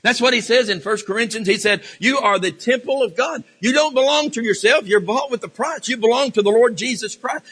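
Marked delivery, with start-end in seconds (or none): 2.0-7.5 higher-pitched, insistent preacher's delivery; emphatic preaching. Acted. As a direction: press each declaration home to the congregation. Preaches scripture with raised force.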